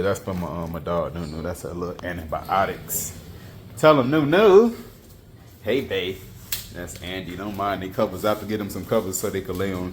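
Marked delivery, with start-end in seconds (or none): 3.8-6.2 high, loud doggy voice; a high, loud sing-song for your pet. Real, not acted. Talking to his dog Nunu.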